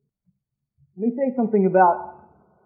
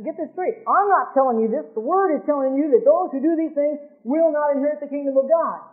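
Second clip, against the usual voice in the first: stern warning; 6 semitones higher than usual. Acted. Preacher warns the listeners.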